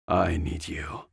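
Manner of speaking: breathy whispered plea, barely voiced; pleading whisper. Jack whispering to Anna, begging her to come back. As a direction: drop to a whisper, asking her to stay.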